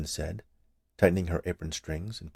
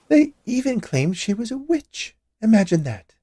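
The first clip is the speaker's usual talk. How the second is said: scandalized woman; 6 dB louder than usual. A narrator's reading. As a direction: drag it out in shocked disbelief. Witch voiced, scandalized.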